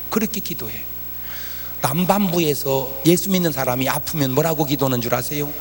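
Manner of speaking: usual speaking voice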